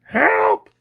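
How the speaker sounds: very high, loud squeak. A narrator's reading. Butcher caught by the cat, panicked squeak. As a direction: squeal for help in falsetto. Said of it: "squeaked the butcher".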